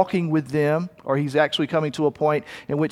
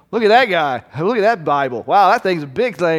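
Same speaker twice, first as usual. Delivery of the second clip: jeering at a passerby with mock wonder; a touch of a scornful heckle; mocking scoff; 4 dB louder than usual. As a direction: sneer at the traveler's Bible. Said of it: "they're laughing at the travelers".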